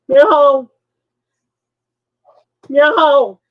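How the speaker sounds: loud high cat yowl; cat meow. Retold or imitated. Imitating the cat crying outside at night, loud meow. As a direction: mimic a desperate cat meowing.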